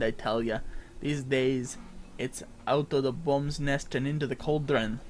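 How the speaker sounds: lightly voiced gruff pirate-Scottish sailor; NPC voice. Streamer reading an NPC's quest lines aloud, light pirate-Scottish lilt. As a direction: read the quest giver like an old sea dog, lightly.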